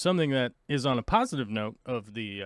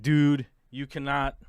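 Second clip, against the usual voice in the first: paraphrased wife; 3 dB louder, slower than usual. Retold or imitated. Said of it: "this is not how she talks".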